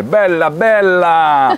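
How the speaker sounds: slow, high, drawn-out Italian admiration; Italian admirer. Retold or imitated. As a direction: savour it like a dazzled Italian old man. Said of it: "ils voient la voiture et font".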